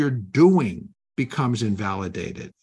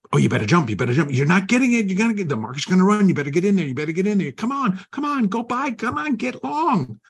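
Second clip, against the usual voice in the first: pushy inner voice; 9 semitones higher, faster than usual. Retold or imitated. Inner demon on your shoulder yelling to jump in, frantic high urging. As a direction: egg yourself on like a panicking gremlin. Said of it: "yell into your ear".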